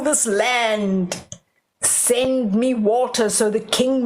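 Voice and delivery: a hint of a wicked witch chanting a curse; lightly voiced witch, slowing at the end; witch casting spell. Witch curses the palace to rule the land, lightly voiced. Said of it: "she could rule the whole land".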